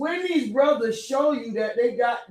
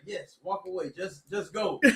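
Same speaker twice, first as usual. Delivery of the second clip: softer under-the-breath urging; quiet aside; 4 semitones lower, 12 dB quieter than usual. Retold or imitated. Host quietly urges the visitor to leave, much softer. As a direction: mutter it to yourself, low. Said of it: "I'm sitting there and saying".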